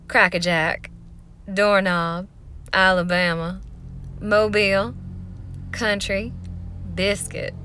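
played-up Southern drawl, word by word; Southern accent. Shown as a demonstration. Vlogger playing up her accent for a pronunciation list, Southern accent. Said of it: "do 'em in a Southern accent".

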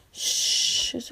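soft unvoiced hush; whispered shush. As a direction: hush them gently to calm. Hushing a crying partner.

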